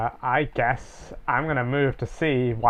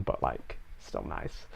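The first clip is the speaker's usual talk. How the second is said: muttered aside; 13 semitones lower, 14 dB quieter, slower than usual. Real, not acted.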